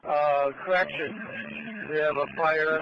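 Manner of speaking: loud and urgent over the radio; urgent radio call. Real, not acted. Fire chief radios urgent fire report.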